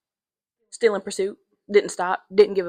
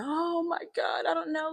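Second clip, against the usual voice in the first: mock screaming; 9 semitones higher than usual. Trapped grandma to rescuer, imitated screaming. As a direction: imitate a panicked grandma in a thin high cry. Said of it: "The grandma is just screaming".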